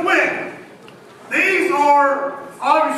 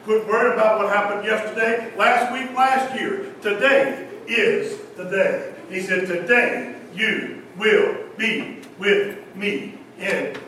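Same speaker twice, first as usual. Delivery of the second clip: soft, low, intimate retelling; hushed storytelling; 8 semitones lower, 5 dB quieter than usual. A narrator's reading. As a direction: draw them in with a hushed voice. Quietly retells the two thieves.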